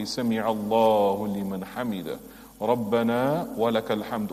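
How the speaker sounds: measured, devout recitation; recited dua. Shown as a demonstration. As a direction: recite it calmly as in prayer. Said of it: "we say".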